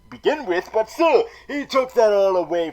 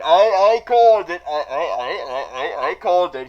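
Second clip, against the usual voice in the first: triumphant; 4 dB louder than usual. Real, not acted. Proud claim of prediction.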